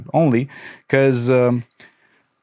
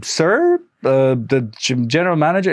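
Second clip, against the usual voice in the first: hesitant; 2 semitones higher than usual. Retold or imitated. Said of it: "I'm like".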